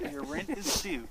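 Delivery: high, shrill nagging rent demand; shrill nagging landlady. Pretend. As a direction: nag like an angry landlady. Joking landlady voice into drain.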